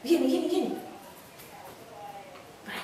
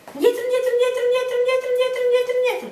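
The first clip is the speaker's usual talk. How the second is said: talking to a dog; 7 semitones higher, 3 dB louder, much faster than usual. Real, not acted. Coaxing the dog backwards.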